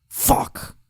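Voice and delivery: whispered curse, imitating the batter; under his breath. Batter cursing after a strike on a live mic, under his breath. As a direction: let a swear slip out in a low, voiceless hush. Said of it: "under his breath".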